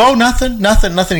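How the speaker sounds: high, mock innocent denial; playing Peter hiding his grumbling. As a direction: brush it off like a sulking disciple. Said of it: "moaning and groaning under his breath".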